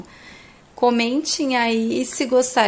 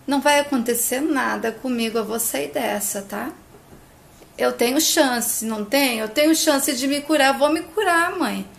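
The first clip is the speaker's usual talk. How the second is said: lightly imitated tears, voice climbing higher; tearful pleading; 3 semitones higher than usual. Daughter begs her crying mother not to cry, mock tearful. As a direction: retell her begging through mild tears. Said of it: "E Camila chorando diz".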